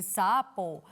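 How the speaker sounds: "sapo" with lengthened syllables, joined; drawn-out word. Shown as a demonstration. Teacher showing how it is said, "sapo" drawn out. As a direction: stretch "sapo" as one word. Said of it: "miren cómo se dice".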